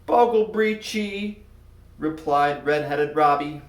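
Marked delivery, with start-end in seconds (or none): 0.0-1.4 high, slow nervous blurt of nonsense; boy stumbling over garbled words. Acted. A nervous boy picked in class, blurting nonsense.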